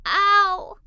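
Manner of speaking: loud, high yelp; cry of pain. Acted. Little Janie yelping at a bee sting. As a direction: yelp as if just stung.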